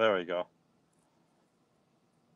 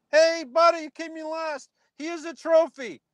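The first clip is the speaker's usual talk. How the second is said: much higher, patronising pat-on-the-head voice; mocking sugary coach; 14 semitones higher than usual. Parodying a coach rewarding last place, a high mocking singsong.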